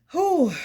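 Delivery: loud high exhale, winded; breathless whew. Real, not acted. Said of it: "I'm out of breath".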